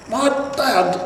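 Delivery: put-on an old man's voice slipping into a squeak; strained high squeak on my dad. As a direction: voice cracks up high. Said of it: "he squeaked".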